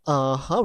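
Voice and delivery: "Uh-huh" dipping, then lifting at the end; agreeing third tone. Shown as a demonstration. Confirmation from the company, agreeing rising "Uh-huh". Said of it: "like tend to agree".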